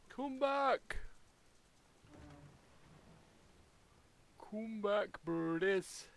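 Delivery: calling out. Real, not acted. Calling birds back.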